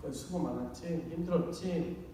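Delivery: quiet sympathetic question; soft comfort. Shown as a demonstration. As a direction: comfort a tired spouse softly. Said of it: "우리가 듣고 싶은 거는 위로예요".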